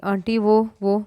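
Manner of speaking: halting, broken-off words; stammering. Acted. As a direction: trip over the start nervously. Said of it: "वो हिकला रही थी". (हकलाते हुए घबराकर)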